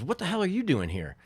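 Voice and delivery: high-pitched, incredulous greeting; retold surprise. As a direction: act out being startled to see a friend. Startled player's greeting, retold.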